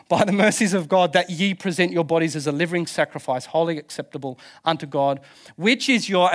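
lightly put-on English accent for scripture; a hint of mock-English Bible reading. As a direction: recite the King James in an English accent. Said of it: "gotta say it in an English accent".

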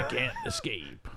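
very high, slow eerie voice; eerie drawn-out ghost voice; creepy voice. Acted. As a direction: warn them like a haunted town. Spooky horror-movie line.

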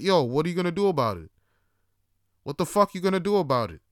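loud, fast retold challenge; confrontational challenge. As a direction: retell it squaring up for a fight. Retold challenge to the other rider.

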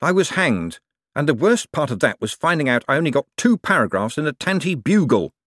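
lightly voiced indignant rogue, hurrying along; a hint of an affronted swindler; aggrieved conman. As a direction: complain with a touch of wounded pride.

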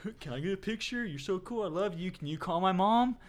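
gushing fan. Acted. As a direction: pester a celebrity with eager, high-pitched requests. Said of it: "everyone all the time was like".

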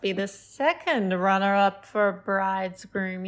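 slow mock-smarmy imitation; weird creepy flirt. Party guest chatting up another man, mock creepy. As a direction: imitate an odd flirt, stretching the words. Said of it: "like, being weird".

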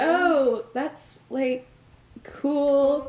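acting out a heartbroken, hesitant reply; devastated but covering. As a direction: pretend to be fine while crushed. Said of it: "devastated. And he's just like".

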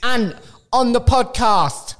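high, loud barking drill sergeant; Ant Middleton. Retold or imitated. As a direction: bark orders like a drill instructor. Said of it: "Ant Middleton".

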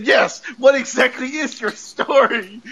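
irritated, drawn-out demand; mad. Retold or imitated. Retelling how Mister Hart got mad, mock-angry demand. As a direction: imitate a man losing his patience slowly. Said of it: "like, mad as hell".

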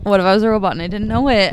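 spacey stoned musing, fast. Real, not acted. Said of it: "You're getting stoned".

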